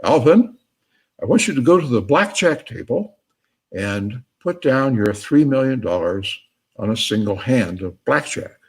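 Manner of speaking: lightly acted booming voice, loud on the name. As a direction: hail Alvin with a mild boom, then settle. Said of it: "he hears the booming voice say".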